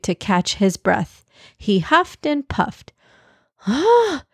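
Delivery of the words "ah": sudden high puzzled ah. Acted. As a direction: catch yourself, suddenly puzzled. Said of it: "abruptly looking puzzled".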